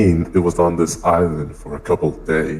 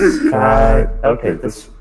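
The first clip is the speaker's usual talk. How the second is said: testing voice; 5 semitones higher, 3 dB louder than usual. Shown as a demonstration. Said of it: "let me try".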